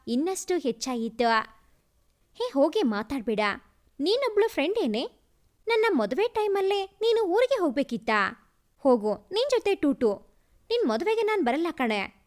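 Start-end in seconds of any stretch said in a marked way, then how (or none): 2.3-3.4 quick, sulky scolding of a friend. Acted. Friend scolds her friend for skipping the wedding, fast sulky scolding. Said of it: "ಎಂದು ಬೈಯುತ್ತಿದ್ದಳು ಸಮೃದ್ಧಿ". 4.0-12.2 higher, quick sulky scolding. Acted. Bride scolds her friend for leaving town, higher and sulky. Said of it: "ಎಂದು ಬೈಯುತ್ತಿದ್ದಳು ಸಮೃದ್ಧಿ".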